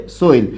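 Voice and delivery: সোইল with an oi glide; সোইল, the dialect form of ছেলে; Rangpur pronunciation. Shown as a demonstration. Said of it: "কি বলে?".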